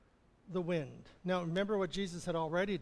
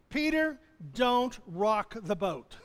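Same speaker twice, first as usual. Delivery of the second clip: mock disciples scolding; 3 dB louder, slower than usual. Disciples in the boat scolding Peter, laughing. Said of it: "disciples or other disciples saying".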